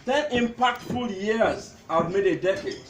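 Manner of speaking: measured, declaimed tribute with pauses; poem recital. Acted. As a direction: recite line by line to a gathering. Recites his poem to gathering.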